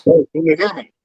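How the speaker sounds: muffled, boxed-in bad mic sound; like talking from inside a cardboard box. Real, not acted. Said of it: "Sounds like you're talking from inside a box".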